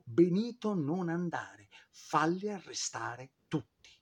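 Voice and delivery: mock yell of an urgent warning; imitated wifely yell. Wife urges Mussolini not to go, mildly imitated yell. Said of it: "Rachele gli urlò".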